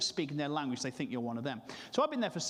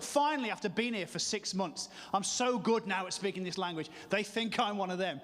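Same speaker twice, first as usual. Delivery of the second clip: mildly excited inner voice, pitched up; thrilled with yourself, lightly acted; a higher, eager rush of self-congratulation; 4 semitones higher than usual. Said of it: "I got so excited".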